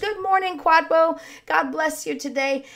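lightly acted cheery greeting; churchgoer's greeting. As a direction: call out a passing hello in church. Acted greeting during church song.

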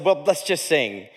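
low, slow, laughing surrender; sheepish laughing give-up. Retold or imitated. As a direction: laugh it off and move on. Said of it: "I don't know how to recover from that".

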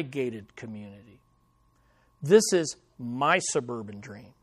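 low, hushed mobster with long pauses; mafia boss. Acted. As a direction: stake a claim like a quiet mafia don. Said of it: "a little mafia boss".

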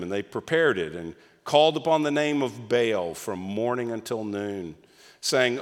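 measured, solemn Bible reading voice; scripture reading. Acted. Pastor reading the Elijah passage to the congregation, solemn reading.

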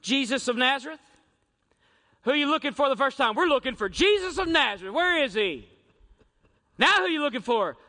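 a touch of nervous stammer; timid soldiers. Retold or imitated. Soldiers answering Jesus again, nervous and unsure. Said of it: "they said this a little differently".

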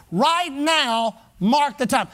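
imitating a preacher's repeated command, weight on MARK; "Right now" held out, then "mark the time" firmly; emphatic revivalist. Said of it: "he'd emphasize it over and over".

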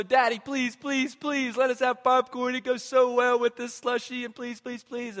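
put-on begging kids. Child begging dad at concession stand, light whiny plea. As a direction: kids begging dad for popcorn at the zoo, mock pleading. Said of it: "And so".

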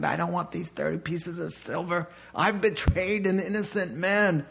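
a hint of a tearful, regretful betrayer; remorseful Judas. Judas throws back the silver to the priest, mild anguish.

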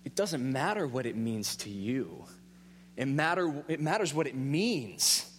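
slow, pressing stress on "matters" and "means"; inner retort. Retold or imitated. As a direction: lay down the point firmly in your head. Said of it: "in my head I go".

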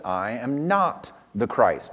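slow, deliberate "not"; emphatic denial. Retold or imitated. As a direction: spell out the denial slowly, leaning on "not" without raising the voice. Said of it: "John emphatically says".

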